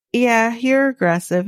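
retold accusation with a touch of attitude; attitude-y retort. Man retelling-style jab at her for being aggressive, mild attitude. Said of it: "got a little attitude-y with her".

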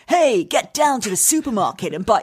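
a hint of a pushy radio ad; hard-sell voiceover. Guest mocking how ads sound, mild hammed-up advert voice. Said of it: "I didn't want it to be like".

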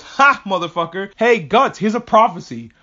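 loud, high taunting outburst; hammed-up demon warning, slowing at the end; mock freak-out. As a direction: blurt it loudly like a panicking prophet. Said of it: "freaks out and goes".

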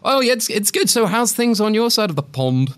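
high, cheery mock American small talk; hammed-up American chattiness; American accent. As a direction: put on an eager American accent. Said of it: "Better go back to being English again".

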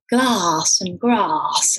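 slow "glass and grass", vowels stretched the southern English way. Shown as a demonstration. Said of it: "you slowly start saying".

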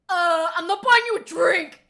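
hammed-up rude brush-off; scornful rejection. Mimicking boy in suit snubbing two women, scornful rejection.

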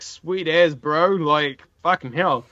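casual Kiwi bro drawl; broad kiwi accent. Retold or imitated. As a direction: lay on the laid-back Kiwi twang. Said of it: "I'm like".

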